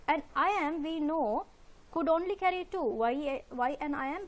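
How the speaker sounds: usual speaking voice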